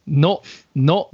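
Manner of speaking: "no" clipped short at the end, imitating the teacher; vowel cut off. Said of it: "you're kinda cutting the, the vowel off".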